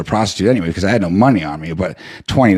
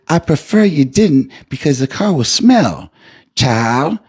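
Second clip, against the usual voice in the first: higher, slow, sweet refusal; polite old lady driver; 7 semitones higher, slower than usual. Retold or imitated. Driver refusing the rider's pipe, high slow sweet voice. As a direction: gently turn him down like a church lady. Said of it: "And she says".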